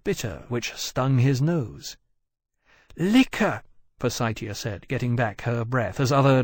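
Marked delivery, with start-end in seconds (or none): 3.0-3.6 put-on high fussy young dragon; high-pitched dragon voice. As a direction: lift it high, quick and fretful. Persitia's dragon voice.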